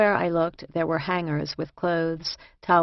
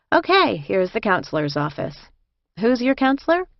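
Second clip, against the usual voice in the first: lightly voiced, businesslike guide; a hint of an inmate showing the ropes; brisk prison escort; 6 semitones higher, 3 dB louder than usual. A narrator's reading.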